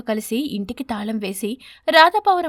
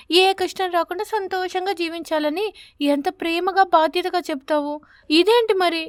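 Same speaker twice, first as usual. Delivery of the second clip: put-on higher, complaining child voice; a young daughter complaining to her mother; a lightly voiced young daughter; 6 semitones higher than usual. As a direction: reproach her mother like a girl. Daughter scolds mother, voiced high.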